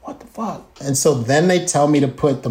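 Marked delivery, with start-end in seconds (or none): 0.0-0.6 tag under 7. Retold or imitated. Baffled aside on seeing props.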